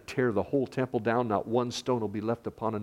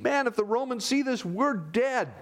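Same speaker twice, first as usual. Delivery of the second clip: mock fearful Pharisee; 13 semitones higher than usual. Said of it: "They're afraid".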